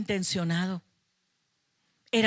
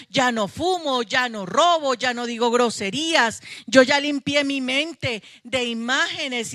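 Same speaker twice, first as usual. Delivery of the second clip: raised, louder voice of a self-satisfied believer boasting; smug self-praise; 3 semitones higher, 4 dB louder than usual. Retold or imitated. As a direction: list the sins you quit as if you were proud of it. Imita al creyente que se cree santo. (imitando con sorna a un creyente satisfecho de sí mismo)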